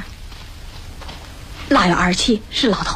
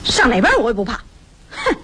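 defiant outburst ending in a huff; loud defiance; 2 semitones higher than usual. Acted. Woman refusing to step aside and talk, loud defiance. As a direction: refuse to be hushed, then huff. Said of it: "你嚷什么你".

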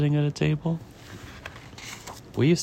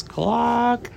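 high, drawn-out cluck; chicken cluck; 12 semitones higher than usual. Acted. Chicken interrupting the waiter's menu question, high clucking. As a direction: cluck like a storybook hen. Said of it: "And the chicken says".

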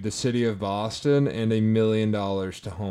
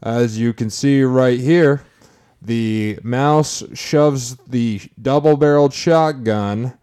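lawyer addressing the jury; 4 semitones higher, 6 dB louder than usual. Pretend. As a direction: play it to the jury box. Mock courtroom closing argument.

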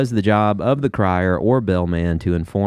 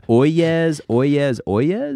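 slow lightly called oyez oyez; a hint of a town crier calling out; 6 semitones higher, much slower than usual. Shown as a demonstration. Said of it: "the call or cry of the town crier".

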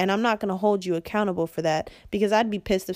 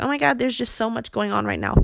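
slightly higher, dismissive mimicry; higher-pitched mock overwhelm; mock excuse-making; 4 semitones higher, faster than usual. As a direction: imitate someone brushing it off.

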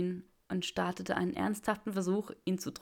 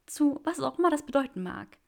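higher, louder joyful woman; Granger's voice; 7 semitones higher, 5 dB louder than usual. Acted. Granger echoes Draco's words, higher and joyful. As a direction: answer him high and bright with joy.

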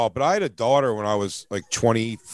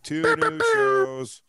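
excited; 8 semitones higher, much slower than usual. Real, not acted. Announcing new shows.

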